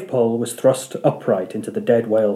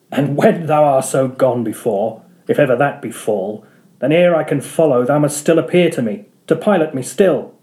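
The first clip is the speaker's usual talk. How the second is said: Ahab, defiant. Acted. Ahab vowing to slay Moby Dick, defiant. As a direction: proclaim it with defiance.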